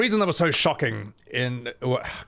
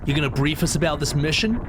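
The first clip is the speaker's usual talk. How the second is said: put-on young voice; 4 semitones higher than usual. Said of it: "keep this young voice for Cloud".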